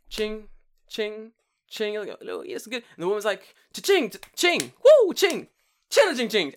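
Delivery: high, loud tambourine jingles; imitated tambourine. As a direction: sing out the clattering beat.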